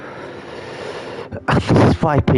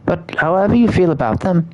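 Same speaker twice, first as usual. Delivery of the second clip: higher, lilting character reading; game dialogue read-aloud; 5 semitones higher than usual. Acted. Guide offering to show the regulators, lightly acted reading. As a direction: lightly act out a helpful guide's lines.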